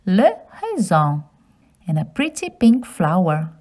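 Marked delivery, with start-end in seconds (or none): 0.0-1.2 le raisin as luh ray-zan, nasal end; French pronunciation. Shown as a demonstration. Teaching children le raisin. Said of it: "Grapes in French is".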